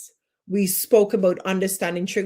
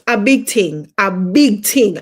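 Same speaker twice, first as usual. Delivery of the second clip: emphatic; 8 dB louder than usual. Shown as a demonstration. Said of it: "I'm going in my Jamaican accent".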